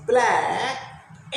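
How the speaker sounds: ब्लैक drawn out slowly in one mouth movement; one-syllable demonstration. Shown as a demonstration. Teacher showing mouth opens once and closes, slow one-syllable ब्लैक. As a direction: stretch the single vowel of ब्लैक. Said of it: "एक बार मुंह खोला".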